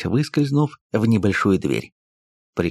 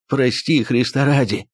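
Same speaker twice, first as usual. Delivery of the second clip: wheezing plea; 3 semitones higher than usual. Acted. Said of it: "продолжал он хрипеть".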